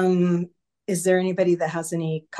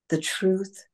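breathy whispered words; 3 semitones higher than usual. Acted. Meditation guide whispering the truth to listeners. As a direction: whisper it like a sacred secret.

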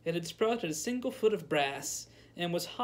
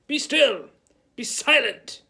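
much higher and louder, a shrill command; shrieked; 8 semitones higher, 11 dB louder, slower than usual. A narrator's reading. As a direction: shriek it at the pot. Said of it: "shrieked the wizard".

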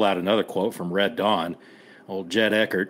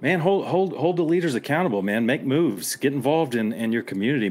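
higher, urgent rallying call; fired-up exhortation; 4 semitones higher than usual. Real, not acted. Veteran urging fellow vets to hold leaders accountable, fired up. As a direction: rouse them to action.

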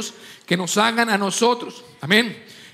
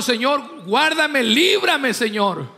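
mock-imploring cry to God, pitched up; imitated pleading prayer; much slower than usual. Young husband begging the Lord to keep him, imitated pleading.

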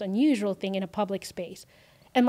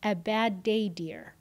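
gentle kind question; slower than usual. Retold or imitated. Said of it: "And she says".

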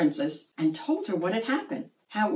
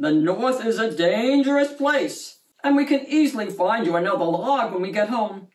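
gruff captain; 4 dB louder than usual. Acted. Captain urges the robot back.

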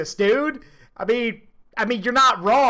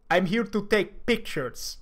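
put-on softer Russian-accented broken English; mimicked Russian accent; 2 semitones lower, 5 dB quieter than usual. Quoting the ballsy Soviet commander, in a soft Russian accent. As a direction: drop softer and imitate the Russian. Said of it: "radios back in broken English".

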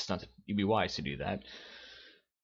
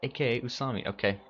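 lightly raised sweet mascot voice; cute mascot voice; 7 semitones higher than usual. Acted. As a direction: introduce yourself sweetly and proudly.

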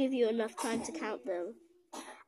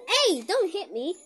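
real protest; 4 semitones higher, 6 dB louder than usual. Real, not acted. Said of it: "My brother was hitting me".

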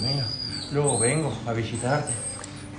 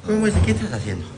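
calling the dog; 9 semitones higher than usual. Real, not acted. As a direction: sing the dog's name out high. Cooing at the dog.

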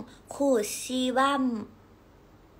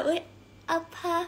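K-drama Korean; 6 semitones higher than usual. Retold or imitated. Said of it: "เรียนมาจากซีรีส์อะทุกคน ว่าแบบ".

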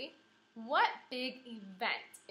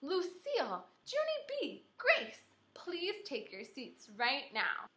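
teacher hollering; 7 semitones higher, slower than usual. A narrator's reading. Teacher calling the girls to sit down, hollering. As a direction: call them to their seats. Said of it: "my teacher hollered our names".

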